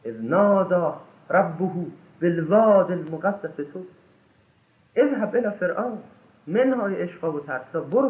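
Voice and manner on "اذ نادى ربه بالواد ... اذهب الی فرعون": Quran recitation. Acted. Slow intoned Quran verse.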